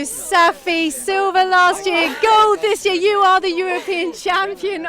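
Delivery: loud, thrilled congratulations; excited. Real, not acted. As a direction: cheer her on, bursting with joy. Interviewer greets new champion.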